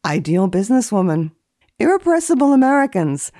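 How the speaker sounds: dry formal reading of entries; deadpan list reading, each entry set apart; index read. Acted. Etiquette columnist reading old index entries, deadpan.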